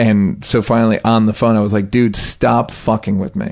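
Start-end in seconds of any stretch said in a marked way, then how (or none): 1.9-3.5 mock blunt, firm, fairly angry annoyance. Retelling a phone call: imitating own direct angry words. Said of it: "I said it in a pretty direct, angry way".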